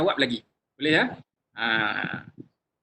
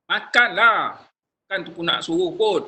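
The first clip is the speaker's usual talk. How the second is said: irritated order; 5 dB louder than usual. Shown as a demonstration. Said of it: "nak suruh orang makan ke nak bagi tahu".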